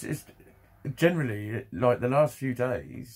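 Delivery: usual speaking voice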